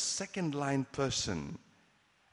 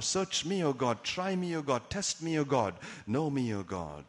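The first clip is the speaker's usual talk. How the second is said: prayer. Acted. Prayer quoted in sermon.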